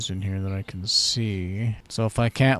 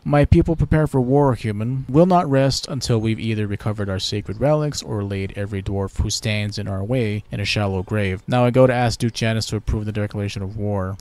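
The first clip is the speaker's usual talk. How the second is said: haughty elf, a touch louder; elf ambassador; 4 dB louder than usual. Pretend. Elven ambassador greets the new Lord Protector, haughty. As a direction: greet the human with lofty pride.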